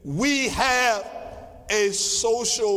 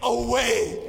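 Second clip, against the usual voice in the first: 1 excited testimony shout; 3 semitones higher, slower than usual. Retold or imitated. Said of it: "He said".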